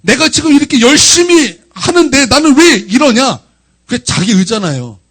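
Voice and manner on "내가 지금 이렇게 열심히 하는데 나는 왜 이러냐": slow, high, emphatic protest; aggrieved complaint to God. Retold or imitated. Preacher retelling his hurt toward God, high aggrieved complaint. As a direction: protest your own hard effort. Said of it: "하나님께 서운한 것이".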